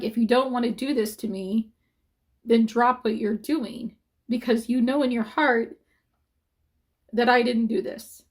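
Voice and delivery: pleading, close to tears; getting emotional. Real, not acted. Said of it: "this is where I get emotional".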